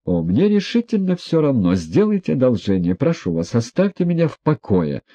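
a lightly voiced fastidious brush-off; squeamish disdain. A narrator's reading. Yevgeny Pavlovich turns away from Ippolit, mildly disdainful. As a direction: wave him away with distaste. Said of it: "брезгливо отвернулся Евгений Павлович".

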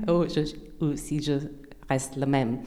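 non-native French speaker; French with an English-speaking accent; foreign accent in French. Real, not acted. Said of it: "mon français n'est pas très bon".

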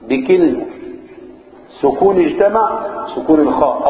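ordinary talk, nothing marked

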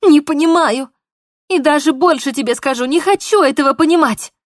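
high, loud defiant shouting; angry shout. Acted. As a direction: throw every word back at him. Polina shouts at Mark.

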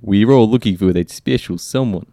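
put-on a shaky-at-best amateur Russian accent. Reluctant guest quotes Nico Bellic in a Russian accent. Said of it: "That was Russian".

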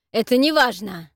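loud growling retort; growled. Acted. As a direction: growl it down, dismissive. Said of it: "рыкнул монстр".

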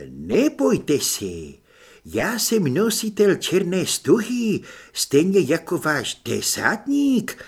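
put-on slow, drawn-out vampire accent; a shy vampire, lingering on the words; Otto's vampire voice. Vampire greets the soldiers, slow and accented.

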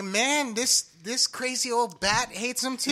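giggling disbelief; half-laughing aside. Retold or imitated. Laughing retelling own reaction.

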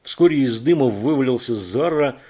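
usual speaking voice

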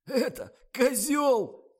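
very high, loud, slow guffaw. A narrator's reading. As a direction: roar with laughter. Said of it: "заржал оператор".

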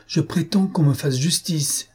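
high-pitched, insistent claim; indignant demand. A narrator's reading. Netta demanding justice of Signora Rosa, indignant.

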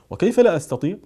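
husband snapping back in annoyance; angry retort from the husband; resentful. A narrator's reading. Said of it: "فقال الزوج في حنق".

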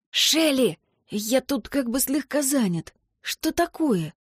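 a hushed, slightly annoyed male friend; half-whispered, a touch irritated. A narrator's reading. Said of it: "Ли говорил шёпотом и немного раздражённо". (раздражённый шёпот)

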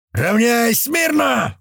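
медленно, выше, резкий командный окрик; гаркни команду как командир; рявкнул. Acted. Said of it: "рявкнул Грач". (командир рявкает на бойцов)

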